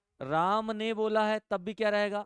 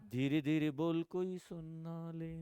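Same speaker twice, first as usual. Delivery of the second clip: hushed warning; 3 semitones lower, 6 dB quieter, slower than usual. Pretend. Example of speaking softly.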